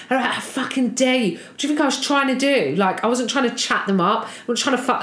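hammed-up offended man; mock rage. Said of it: "he was screaming at me".

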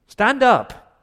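high and loud STAND UP; shouted command. Retold or imitated. God shouting at Joshua to get off the floor. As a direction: bark it out, jolting him up. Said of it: "the tone of his voice was in verse ten".

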